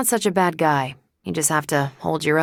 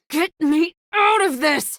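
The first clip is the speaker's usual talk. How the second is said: urgent shout; 11 semitones higher than usual. Acted. Trapped, calling for help.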